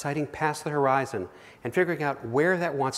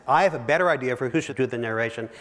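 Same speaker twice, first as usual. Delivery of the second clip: "better" pushed louder and quicker; topping his friend's idea with a cheeky, louder "better"; playful one-upping; 5 dB louder, faster than usual. Retold or imitated. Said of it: "I said".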